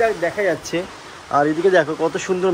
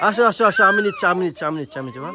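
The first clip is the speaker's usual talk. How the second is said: laughing coax; 5 semitones higher, 4 dB louder, faster than usual. Real, not acted. Parent calling the crying baby over, laughing and coaxing.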